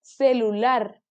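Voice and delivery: slow Celular, each syllable separate. Shown as a demonstration. Teacher splitting Celular for children, slowly. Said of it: "última sílaba".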